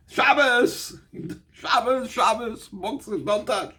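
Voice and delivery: high-pitched acted cry of alarm, not full volume; play-acted high scream, easing off in volume; mock scream. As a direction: cry out in warning like a screaming tree. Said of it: "the tree itself will scream".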